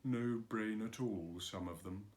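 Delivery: murmured. Acted. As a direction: mumble it under your breath. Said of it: "he murmured to himself".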